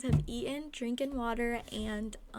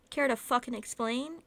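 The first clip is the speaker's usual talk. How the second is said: angry; 6 dB louder than usual. Acted. Angry quarrel.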